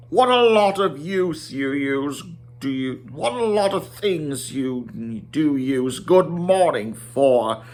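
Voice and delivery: a lightly voiced wry wizard; gently mock the hobbit's manners; Gandalf's voice. Gandalf teasing Bilbo over good morning, lightly voiced. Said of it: "Gandalf said".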